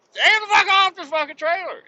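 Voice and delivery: high, loud yell at the workers; retold shout. Trucker yelling at workers to get off the trailer, high loud shout. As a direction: bark them off the trailer.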